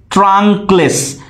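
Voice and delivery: ট্রাঙ্কলেস drawn out slowly, stressed on ট্রাঙ্ক; slow scansion of ট্রাঙ্কলেস, first syllable stressed. Shown as a demonstration. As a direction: lean on ট্রাঙ্ক in ট্রাঙ্কলেস, leave লেস unstressed. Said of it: "ট্রাঙ্ক মানে তোমার নাউনের শুরুর সিলেবলে".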